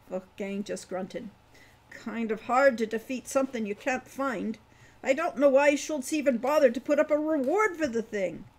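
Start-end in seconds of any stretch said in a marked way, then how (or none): 1.9-8.4 put-on higher, louder voice for a rambling old dwarf. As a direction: play the chatty old dwarf, a bit louder. Wolfgang scoffs at reward.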